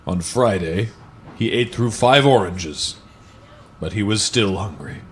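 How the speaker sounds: slow, deliberate picture-book read-aloud; lingering on each line like bedtime reading; storybook narration. Acted. Reading a parody children's book to friends, in a slow storybook voice.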